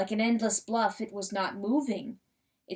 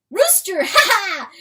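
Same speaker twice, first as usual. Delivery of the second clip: high, loud, laughing; delighted laughing cry; 10 semitones higher, 10 dB louder than usual. Acted. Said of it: "cried John Wesley, truly delighted".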